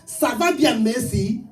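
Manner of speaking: mockery of tongues as one learned phrase; mock tongues in French. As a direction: chant rote French like fake tongues. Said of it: "Speak, uh, French".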